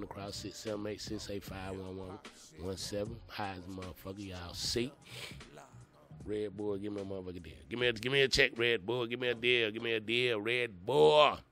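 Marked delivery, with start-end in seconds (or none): 6.2-11.4 loud, half-joking plea for a sponsor; calling out. Real, not acted. Begging Red Bull for a sponsorship deal, loud and playful. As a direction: shout it at the brand, playful begging.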